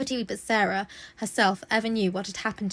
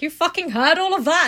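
loud, higher, outraged mock snap; mock angry headmistress; 6 semitones higher, 8 dB louder than usual. Headmistress catching the eavesdropping maid: loud mock outrage. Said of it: "Miss Minchin's like".

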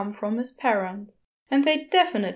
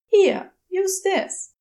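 Crowley; 9 semitones higher, 5 dB louder, slower than usual. A narrator's reading. Crowley handing over disk.

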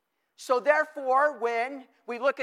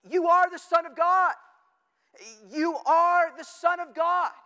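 loud high proclamation of the evil spirits; demons shouting; 6 semitones higher, 5 dB louder than usual. Retold or imitated. Preacher voicing spirits that fell at Jesus' feet, loud shout. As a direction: cry it out as the spirits falling at his feet. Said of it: "they shouted".

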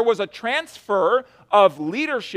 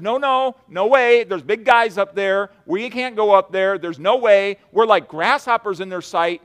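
mock panicky protest, pitch up at the start; fearful spies; 2 semitones higher, 4 dB louder than usual. Preacher voicing the ten spies balking at giants, mock panicky. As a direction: play the scared spies refusing to go. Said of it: "the other ten spies said".

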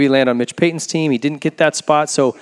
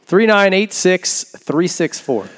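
slow and deliberate; 4 semitones higher, much slower than usual. Real, not acted. Rereads the winning number slowly.

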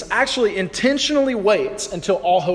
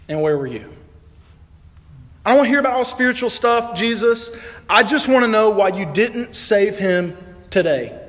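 high, loud, hurting protest; pained Martha; 4 semitones higher, 3 dB louder than usual. Acted. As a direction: demand answers through grief. Martha voiced in grief.

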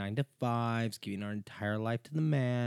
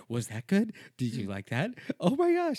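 louder, far higher on the last words, mocking; mocking needy questions; 7 semitones higher, 5 dB louder than usual. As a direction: tease her for breaking character.

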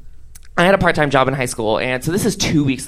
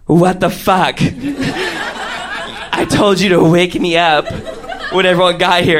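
put-on angry drunk girl; 4 semitones higher, slower than usual. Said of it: "And Shelly's like".

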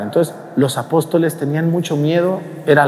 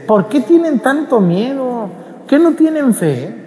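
mild rebuke; 11 semitones higher, slower than usual. Retold or imitated. Jesus rebuking the apostles.

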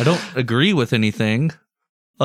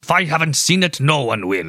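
put-on movie villain German accent, clipped and menacing; evil German accent; 3 semitones higher than usual. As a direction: play it as a sinister German villain. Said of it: "my evil German accent".

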